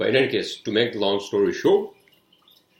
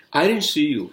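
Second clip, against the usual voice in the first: defensive; 5 semitones higher, 6 dB louder than usual. Retold or imitated. Other driver's reply in retold quarrel.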